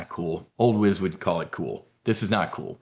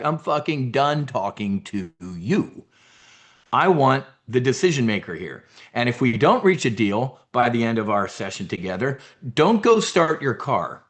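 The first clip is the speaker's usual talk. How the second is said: mafia don. Pretend. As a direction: threaten like a Jersey don. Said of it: "That's how a don would talk".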